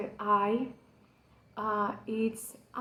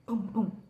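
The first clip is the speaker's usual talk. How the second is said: heartbeat imitation; 3 dB quieter than usual. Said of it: "you can hear his heart".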